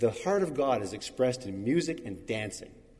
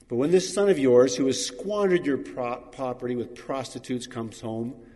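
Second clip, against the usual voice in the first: angry; 4 dB louder than usual. Acted. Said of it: "The older brother became angry".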